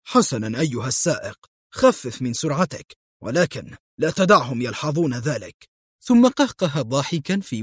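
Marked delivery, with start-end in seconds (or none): 0.1-5.7 sly. Acted. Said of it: "قال فولف في مكر".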